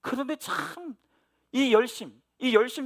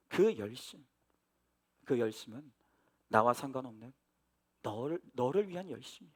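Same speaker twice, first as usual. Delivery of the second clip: quieter, a hint of God's gentle reproach; soft voice of God; 8 semitones lower, 6 dB quieter than usual. Pastor voicing God's quiet reproach of his zeal, softly. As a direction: let God's words sink low and soft. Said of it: "저에게 그렇게 말씀하시는 거예요".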